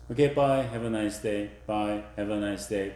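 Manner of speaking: quick, offhand goodbye; routine goodbye. Shown as a demonstration. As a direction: toss it off like a daily habit. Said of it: "That happens every morning".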